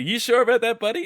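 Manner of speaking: high, loud, knowing disbelief; mock suspicion. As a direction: call his bluff with a smirk. Calling out Hazzy's lie.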